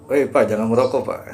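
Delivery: loud mock telling-off; scolding call-out. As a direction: call out to stop him. Imagined scolding from a bystander.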